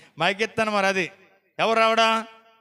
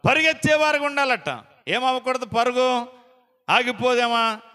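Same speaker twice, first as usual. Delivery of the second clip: higher, ringing call to run; rousing exhortation; 5 semitones higher than usual. Acted. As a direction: lift the church with it. Preacher exhorting congregation. (ఉత్సాహంగా పిలుపు)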